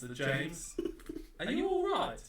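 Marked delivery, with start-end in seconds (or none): 1.4-2.2 loud, slow hammed-up alarm; mock panic. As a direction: shout for help like an emergency. Mock panic over a garbled reading.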